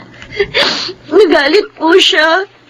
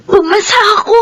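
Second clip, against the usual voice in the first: masayang sigaw ng balita; tuwang-tuwa; 3 semitones higher, much faster than usual. Acted. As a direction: ibalita nang buong saya. Excited news of passing scholarship. (masayang pagbabalita sa kuya)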